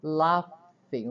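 "Laughing" with the gh said as an F sound. Shown as a demonstration. Teacher repeats "Laughing" for class, F sound stressed. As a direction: model "Laughing" with F in the middle. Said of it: "É um F aí em português".

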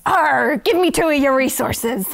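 growly mock pirate demand. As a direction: play a pirate, lightly. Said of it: "That was a pretty good, uh, pirate voice".

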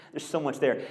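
chuckling at how much the verse holds; laughing. Real, not acted. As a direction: say it again through a real laugh. Repeat of line 26 with laugh.

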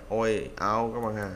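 oi, ao kéo dài chậm rãi; slow vowel demo. Shown as a demonstration. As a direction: stretch oi and ao slowly. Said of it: "toy với towel". (kéo dài âm oi và ao)

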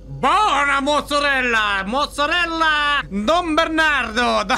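high, loud, stretched-out cheer; long vowels bursting with glee; ecstatic shouting. Real, not acted. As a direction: holler it like a triumphant food cry. Ecstatic discovery of mozzarella.

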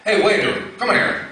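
put-on a touch of a cocky kid snapping for the waiter; lightly voiced rude customer. Cocky young guy calls the waiter over, mildly rude. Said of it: "kinda a little, little bit rude".

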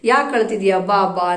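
the right way: a tender "ಯಾಕೆ ಅಳ್ತಿದ್ಯಾ, ಬಾ ಬಾ"; gentle comforting. Shown as a demonstration. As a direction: comfort a crying child kindly. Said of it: "ಅಂತ ಅವ್ರನ್ನ ಎತ್ಕೋಬೇಕು".

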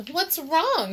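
high-pitched, concerned question; kindly concern. A narrator's reading. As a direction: ask a friend gently but clearly. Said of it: "kindly asked him".

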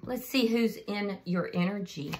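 usual speaking voice

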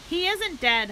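high, loud holler. A narrator's reading. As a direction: shout him down, he's alive. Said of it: "hollered Zuckerman".

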